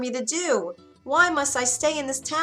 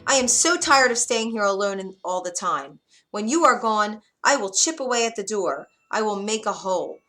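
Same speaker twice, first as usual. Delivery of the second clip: put-on defiant girl; 2 semitones higher, 5 dB louder than usual. Rapunzel defying the witch, louder and defiant. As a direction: stand up to the witch.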